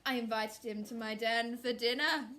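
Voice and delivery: lightly voiced sly host; scheming fox. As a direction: tempt them with a villain's invitation. Scheming fox invites birds.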